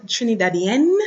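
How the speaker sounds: Trinidadienne with the final n sounded; feminine ending. Shown as a demonstration. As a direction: finish Trinidadienne on a clear n. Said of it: "You get that E".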